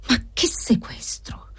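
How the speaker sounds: slow, smiling ironic dismissal; ironic exclamation. Acted. Debtor ironically dismissing the inspector's worries. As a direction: wave it off with a wry smile. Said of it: "esclamò l'assistito sorridendo ironicamente".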